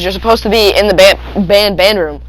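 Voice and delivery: stammering on "band"; stuttering. Retold or imitated. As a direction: repeat "ban-, band, band". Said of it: "she stutters like that".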